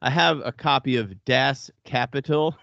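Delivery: put-on light Buffalo accent; a hint of Buffalo accent. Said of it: "I'm gonna say this in my Buffalo voice".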